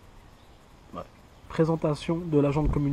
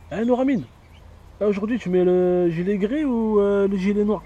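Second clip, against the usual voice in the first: loud call, higher; 5 semitones higher, 4 dB louder than usual. Acted. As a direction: hail him across the room. Calling out to the stylist. (appel fort et aigu)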